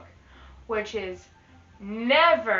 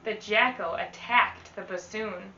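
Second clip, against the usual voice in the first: put-on lively read-aloud to children; teacher reading a rhyming book to the class; storybook reading. Teacher reads picture book aloud.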